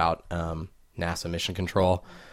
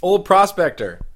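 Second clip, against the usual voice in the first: put-on high, slow, hollered old-timer; old prospector; 12 semitones higher, 7 dB louder than usual. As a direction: holler it like a creaky gold miner. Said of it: "give us some of the Old Prospector".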